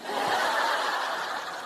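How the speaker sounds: soft, voiceless giggle; real soft laugh; breathy laugh. Real, not acted. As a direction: laugh quietly at the bad acting. Laughing at own acting.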